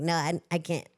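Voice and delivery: can't do it, giggling in protest; laughing refusal. Retold or imitated. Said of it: "I'm like".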